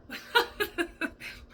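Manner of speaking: high, breathy burst of laughter; sudden airy laugh. Real, not acted. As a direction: laugh out at your own mishearing. Laughing at misheard channeled words.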